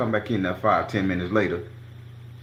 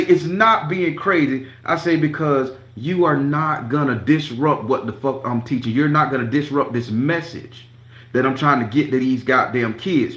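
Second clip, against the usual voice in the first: heated retort; 3 semitones higher, 3 dB louder than usual. Retold or imitated. Retold argument continues.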